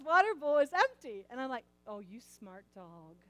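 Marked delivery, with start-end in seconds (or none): 1.9-3.2 slow, rising sing-song praise for the dog; mother praising her dog; baby talk to dog. Retold or imitated. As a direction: gush over the dog like a baby. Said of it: "being ridiculous".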